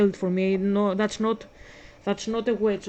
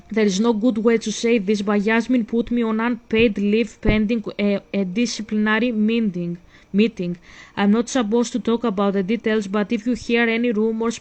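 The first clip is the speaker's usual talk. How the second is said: reading a text aloud; 4 dB louder than usual. Acted. Reads Gwen's text message aloud.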